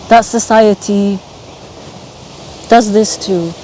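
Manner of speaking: halting, long pauses between phrases, real feeling; getting emotional. Real, not acted. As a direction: work through it haltingly, holding back emotion. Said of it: "Sorry, I'm getting emotional".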